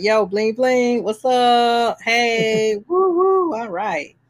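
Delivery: showy bling-bling voice, jumping high on the woos; mock hype man showing off a Rolex; flashy Gotti bragging. Gotti flashes his Rolex, with hammed-up high whoops. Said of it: "He's like".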